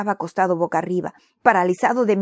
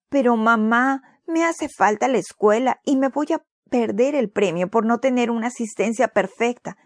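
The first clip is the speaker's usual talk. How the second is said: a mild higher pleading whine; whining plea; 4 semitones higher than usual. Acted. Boy begs his mother to go to school, mild whine. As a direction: complain he'll miss school, lightly whiny. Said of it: "gimió Timoteo".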